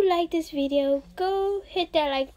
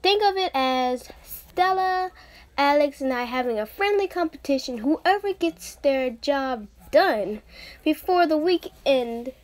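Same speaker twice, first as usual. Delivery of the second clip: put-on playful friendly girl teasing a rival; the speaker's first voice. The speaker auditioning, teasing Amethyst about Blake, playful. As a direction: tease her like a best friend, lightly voiced. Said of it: "So here we go".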